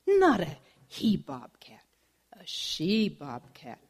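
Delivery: hushed, slow secret whisper; confiding whisper to the jealous bobcat. Acted. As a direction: lean in and whisper it like gossip. Saguaro confides about rival.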